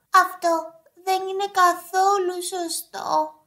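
mildly whiny storybook complaint; inconsolable grumbling. Acted. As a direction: grumble like an upset little hedgehog. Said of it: "γκρίνιαξε ο Σκατζόχερος, απαρηγόρητος". (απαρηγόρητη γκρίνια)

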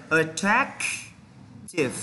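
"Attractive" broken up, long gap before the last syllable; slow pronunciation demo. Shown as a demonstration. Teacher leads students in pronouncing it, broken-down demo. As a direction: say "Attractive" very slowly, stressing "trac", then "tive". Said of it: "chúng ta cùng phát âm này".

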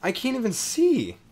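high, rattled questions; flustered, can't see what's attacking; panicked. Real, not acted. Gamer lost in a spider fight, high panicked questions.

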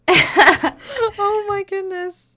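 drawn-out high squeal; stretched out, gushing; excited. Real, not acted. Delighted by cute build.

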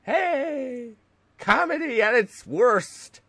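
high, put-on Russian accent. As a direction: try out a hammy Russian accent. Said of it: "let's go with a Russian accent".

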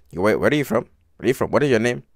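put-on G-checking in an Indian accent; mock Indian accent. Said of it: "trying to G-check in an Indian accent".

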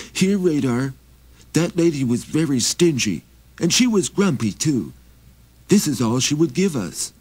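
high, pleading little traveler; high begging wanderer voice; Maxie voice. Acted. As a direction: raise the pitch and ask humbly. Maxie talks to reindeer.

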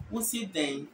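"Wosi den" in plain Asante Twi; Twi accent. Shown as a demonstration. Teacher setting Twi against Fanti, Twi accent. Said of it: "Twi will say".

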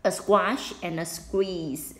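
slow, careful reading of the title; teacher reading a book title. Shown as a demonstration. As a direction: read the title clearly and slowly. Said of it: "修饰".

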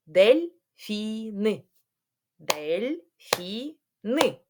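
ДЕЛЬФІНИ very slowly as дель-фі-ни; syllable by syllable. Shown as a demonstration. Teacher counting syllables with pupils, syllable by syllable. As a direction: break ДЕЛЬФІНИ into three parts with gaps. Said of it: "на склади".

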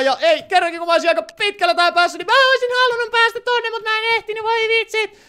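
very high, loud frustrated wail, easing in volume; turhautunut kitinä. Real, not acted. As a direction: whine it out in a high voice, exasperated. Harmittelee ettei ehtinyt pelissä. (korkea, turhautunut valitus)

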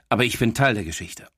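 ordinary delivery

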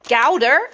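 Gouda said "GOW-da", rhyming with how; Gouda as "GOW-duh", said like a correction; British Gouda. Shown as a demonstration. Vlogger insisting on her way of saying Gouda, "GOW-da". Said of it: "is how you would say it".

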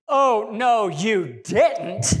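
"Oh no, you didn't" through a laugh; giggling mock outrage; laughing sass. Shown as a demonstration. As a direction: laugh it out with attitude. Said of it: "It's gotta be more like".

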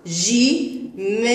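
جمال with the aa stretched slowly, rising; long drawn-out vowel. Shown as a demonstration. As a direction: draw out the aa in جمال. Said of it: "فتحة ممدودة لأعلى".

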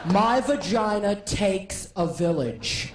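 mock political oration; Hillary Clinton. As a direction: preach it like a stump speech. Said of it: "Hillary's gotta do it".

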